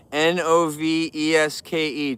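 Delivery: letter by letter, slowly; slow spelled-out name. Shown as a demonstration. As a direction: spell it out for them clearly. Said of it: "Type that name in".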